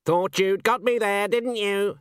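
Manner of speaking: lightly voiced high sneering swan; smug, high-pitched bird voice. A narrator's reading.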